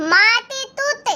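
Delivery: put-on lisping, childish "माती तूत" with t for d and j; baby talk, swapping sounds for t. Lisping daughter-in-law talks to mother-in-law.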